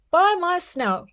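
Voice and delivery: high startled piglet cry; alarmed cry. Acted. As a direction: gasp it out as a frightened pig. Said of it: "cried Horace".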